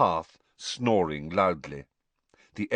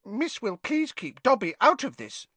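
mumbling elf; 12 semitones higher than usual. A narrator's reading. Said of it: "Dobby mumbled".

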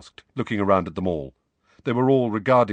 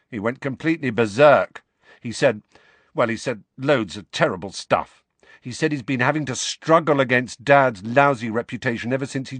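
put-on raised, heated teenage boy's voice; Ron, indignant; 6 semitones higher, 5 dB louder than usual. A narrator's reading. Ron tells Harry about Percy's row, indignant and raised. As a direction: Ron venting about his brother.

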